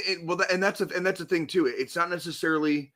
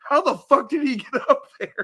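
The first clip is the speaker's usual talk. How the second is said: imitating amazed fan; 10 semitones higher, 6 dB louder than usual. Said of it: "It's like".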